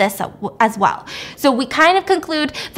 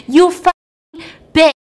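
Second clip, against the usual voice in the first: drawn-out, raised mock scream; higher, louder, each word stretched in imitated rage; hammed-up furious yell; 6 semitones higher, 6 dB louder, slower than usual. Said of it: "she's screaming at the top of her lungs".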